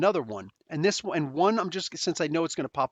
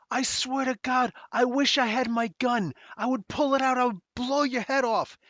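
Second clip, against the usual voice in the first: retold threat; 8 semitones higher than usual. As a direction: say it like you mean to hurt him. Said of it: "all of a sudden he says".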